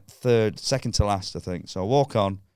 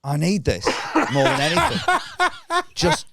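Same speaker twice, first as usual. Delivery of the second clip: mock pleading. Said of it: "And I went".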